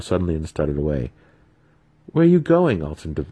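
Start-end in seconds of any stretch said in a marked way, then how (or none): 2.1-2.8 high, loud alarmed question; trapped drow crying out; urgent call. Acted. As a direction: call after him in alarm. Trapped Alton calls out.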